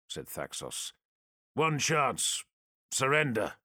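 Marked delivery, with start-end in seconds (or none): 1.5-3.5 firm, clipped demand, a little raised; stern commanding warrior. Acted. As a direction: issue the ultimatum coldly. Space Marine demands surrender.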